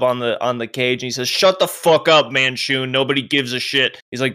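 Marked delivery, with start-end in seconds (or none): 1.3-4.0 angry guard. Acted. Guard telling Manshoon to shut up, mildly angry. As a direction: shut the prisoner up, with mild force. Guard slams club, silences prisoner.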